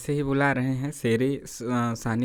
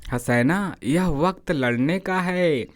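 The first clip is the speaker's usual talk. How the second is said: lovingly; slower than usual. Retold or imitated. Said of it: "प्यार से बोली".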